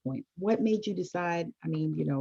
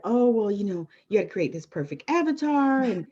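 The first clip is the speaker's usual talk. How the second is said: higher, louder mock coaching advice; mimicking coaches; 3 semitones higher, 5 dB louder than usual. Imitating coaching programs on the perfect client avatar, mocking. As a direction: parrot the programs' fussy checklist.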